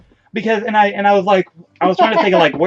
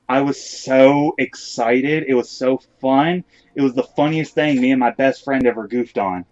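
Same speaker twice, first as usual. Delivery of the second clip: oh-my-God gay voice; 3 semitones lower than usual. Acted. Wrestler retelling his answer to excited girls, put-on oh-my-God gay voice. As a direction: put on a mildly stereotyped gay voice, stretching the opening. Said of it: "Oh my God voice".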